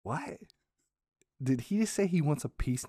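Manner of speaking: whispered, rising what; stunned whisper. Real, not acted. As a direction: breathe it out in disbelief. Disbelief at dad's request.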